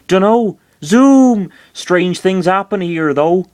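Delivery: high, loud creature chirp; high-pitched cartoon creature; odd little creature. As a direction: answer in a high, drawn-out critter voice. Creature answers the question.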